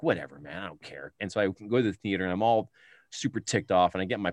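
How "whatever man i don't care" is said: put-on sulky teen. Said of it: "I'm like".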